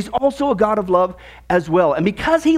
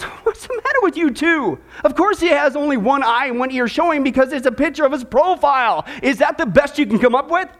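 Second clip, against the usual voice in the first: mildly exasperated, pitched up at the start; frustrated; 4 semitones higher than usual. Acted. Policeman fed up with two candidates' silly answers, frustrated. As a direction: scold two hopeless candidates. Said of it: "he's a little frustrated now".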